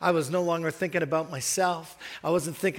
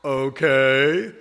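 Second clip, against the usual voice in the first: a slow, louder, skeptical "Okay" with a lifting end; wary okay; 3 semitones lower, 8 dB louder than usual. Retold or imitated. Preacher imitating someone who looks at him strangely, skeptical. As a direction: draw out a doubtful okay. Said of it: "I've had people look at me like".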